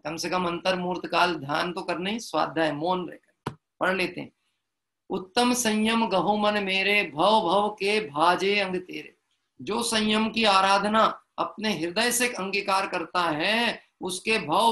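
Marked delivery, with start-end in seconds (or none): 5.1-9.2 slow chanted verse line; verse recitation. Acted. Preacher recites the restraint hymn to listeners, slow chant. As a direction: intone the verse slowly and evenly.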